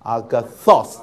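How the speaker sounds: agathos called out with a strong last syllable. Shown as a demonstration. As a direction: model the word firmly, final syllable punched. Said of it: "我们大声一点".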